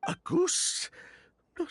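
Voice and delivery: shocked disbelief. Acted. Shocked by absurd claim.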